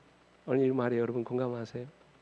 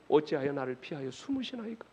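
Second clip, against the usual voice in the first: softer plea to God; subdued lament; 5 dB quieter than usual. Acted. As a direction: let the plea sink back, quieter. Lament drops after loud cries.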